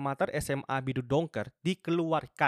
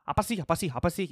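irritated outburst, higher and louder; emotional snapping; 6 semitones higher, 5 dB louder than usual. Retold or imitated. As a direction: snap back repeatedly, imitating a flare-up of temper. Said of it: "emosional, tak bentak". (membentak kesal dengan emosional)

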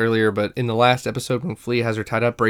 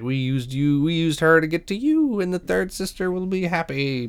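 lightly voiced villain monologue, pitch climbing; gloating villain; 4 semitones higher, 3 dB quieter than usual. Flea reveals the trap to Obi-Wan, mock villain gloating. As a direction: recite the evil plan in a mock villain voice.

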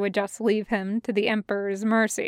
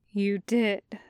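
flat voice. Acted. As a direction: say it flatly, drained. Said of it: "he says flatly".

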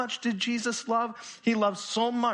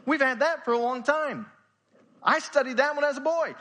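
higher, a disciple cutting in to protest; lightly voiced disciple, pitched higher; objecting disciple; 5 semitones higher than usual. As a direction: play the know-it-all disciple who stops Jesus. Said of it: "One of the disciples would stop Jesus and say".

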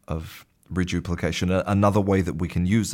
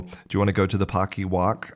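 put-on baby talk; faster than usual. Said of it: "that kind of talk".

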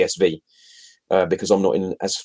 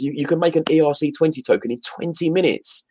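repeats "twenty minutes" higher, stressing the point; emphatic repeat; 7 semitones higher than usual. Real, not acted. Calling out Ethereum fans with the same fact, higher and emphatic. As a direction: drive it home to the fans, pitched up. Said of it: "So all you Ethereum fans".

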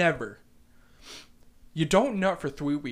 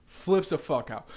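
ordinary delivery

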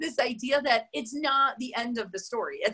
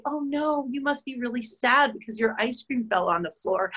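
soothing; 3 semitones higher than usual. Retold or imitated. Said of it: "And then you say".

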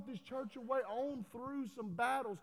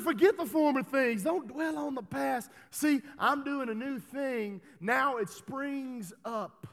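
slow scripture reading; 3 semitones higher, 6 dB louder, slower than usual. Acted. Quoting scripture.

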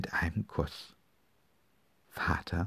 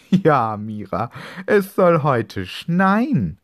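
neighbour's reply; 8 semitones higher, 10 dB louder, slower than usual. Acted. Neighbour replies from the street.

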